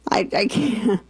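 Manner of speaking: a breathy whispered "I can't"; whispered disbelief. Real, not acted. Host at a loss over the mom's word, whispered. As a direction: give up in a whisper. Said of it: "exasperated whisper".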